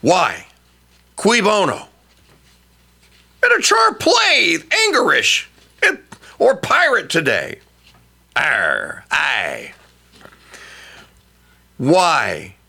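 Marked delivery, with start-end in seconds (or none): 3.4-7.6 shouted pirate call. Acted. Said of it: "National Talk Like a Pirate Day". 8.4-9.7 low gruff pirate growl. Acted. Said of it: "National Talk Like a Pirate Day".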